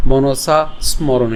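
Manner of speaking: slow মনসা স্মরণ with a clear sm cluster; careful pronunciation. Shown as a demonstration. Teacher models the hard cluster slowly. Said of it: "অনেকের হয়তো বা এই জায়গায় সমস্যা".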